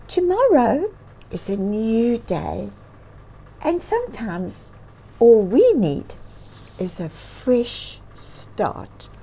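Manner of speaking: a wise bird offering hope. Acted. Bird voiced in story.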